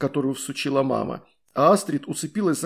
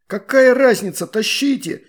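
higher, louder impatient yell; shouted; 7 semitones higher, 7 dB louder than usual. A narrator's reading. Klanos yelling at the others to keep hauling, loud. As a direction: shout them to keep pulling. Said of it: "выкрикнул Кланос".

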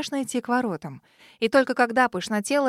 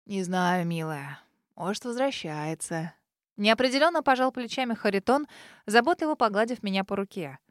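put-on an old spirit soothing a tired girl; domovoy's gentle voice; 3 semitones lower, 3 dB quieter than usual. House spirit comforts the witch girl, tender and low.

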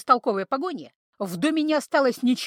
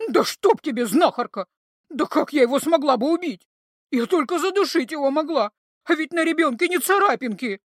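shrill protest; 4 semitones higher, 5 dB louder than usual. A narrator's reading. Creature protesting.

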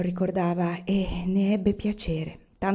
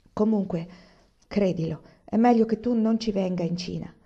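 firm; 2 semitones higher than usual. Acted. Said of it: "le disse con fermezza".

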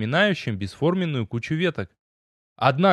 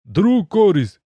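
blurted out; 7 semitones higher, 6 dB louder than usual. A narrator's reading. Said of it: "на одном дыхании выпалил".

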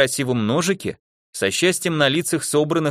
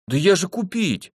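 heated protest; 8 semitones higher than usual. A narrator's reading. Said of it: "с жаром возражал он".

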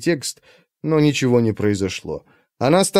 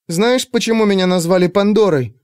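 searching; 7 semitones higher than usual. A narrator's reading. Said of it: "испытующе спросила она".

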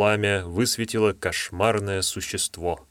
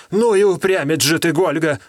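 grumbling; 7 semitones higher, 5 dB louder than usual. Acted. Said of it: "проворчал Псович".

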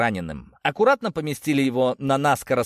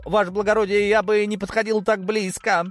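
higher-pitched character voice, only lightly muttered; muttered warning; 9 semitones higher than usual. A narrator's reading. Павел warns his lordship back from the edge, high cautioning voice. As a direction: warn a superior in a raised pitch. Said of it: "пробормотал Павел".

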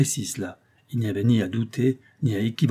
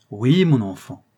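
tender exclamation; 7 dB louder than usual. A narrator's reading. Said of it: "s'écria-t-il, tout attendri".

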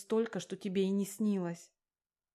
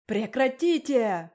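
slow, much louder furious roar; 4 semitones higher, 10 dB louder, much slower than usual. A narrator's reading. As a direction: bellow to silence the quarrel. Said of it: "заорал Рустам". (громкий протяжный рёв)

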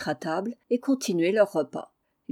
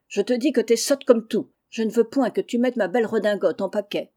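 loud quarrel with his wife; angry shouting; 3 semitones higher, 4 dB louder than usual. Acted. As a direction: bawl him down in a spat. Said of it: "criant à qui mieux mieux". (mari qui crie contre sa femme)

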